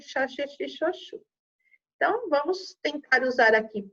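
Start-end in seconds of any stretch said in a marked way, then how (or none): 0.0-1.2 "xá, xê, xê, xô, xô" as soft SH syllables. Shown as a demonstration. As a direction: recite "xá, xê, xê, xô, xô" quietly with SH. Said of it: "o som de".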